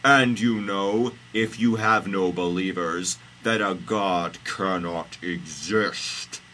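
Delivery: loud, slow declaration; big deliberate deity voice; God's pronouncement. Acted. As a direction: declaim it slowly and grandly.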